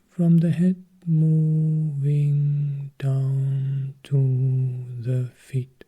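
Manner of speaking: very slow, each word stretched out; slowly guiding attention from head to feet; drawn-out guidance. Acted. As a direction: draw the scan slowly down the body. Slow body scan guidance.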